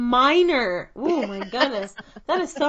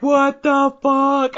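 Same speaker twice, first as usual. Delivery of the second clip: shocked audience; 3 semitones higher, 4 dB louder, much slower than usual. Pretend. Imagined audience hearing the laugh.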